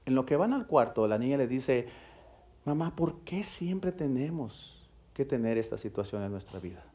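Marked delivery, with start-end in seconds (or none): 2.7-6.8 weary despair. Retold or imitated. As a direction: ask it as if tired of it all. Daughter asks mother in despair.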